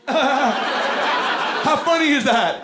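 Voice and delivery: put-on high, giggly kid voice; proud little boy showing off; nephew voice. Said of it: "and just go".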